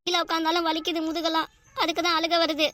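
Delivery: mildly whiny, close to tears; tearful complaint. Acted. Worker telling older friend her back hurts, mildly tearful complaint. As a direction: complain of aches with a touch of crying. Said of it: "அப்புறம் எதுக்குடி அழுகுற".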